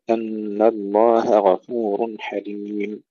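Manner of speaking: slow أن الله غفور حليم, light هاء then heavy غين; drawn-out recited أن الله غفور حليم, each letter distinct; separated letters. Shown as a demonstration. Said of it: "وفصل الهاء عن الغين".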